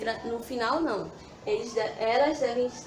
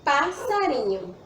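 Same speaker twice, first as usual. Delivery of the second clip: slow, clear word; 2 semitones higher than usual. Shown as a demonstration. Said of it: "Nós temos duas palavras aqui".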